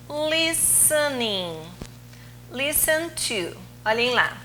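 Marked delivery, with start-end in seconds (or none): 0.1-1.7 listening, said slowly syllable by syllable; teacher slowly modelling listening; slow demo word. Shown as a demonstration. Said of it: "Qual que é a tônica? O li ou o sen?". 2.5-3.6 Listen said with the LIS syllable stressed, a little slow; teacher showing the stress in Listen; stress on first syllable. Shown as a demonstration. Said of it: "Qual que é a tônica? O li ou o sen?".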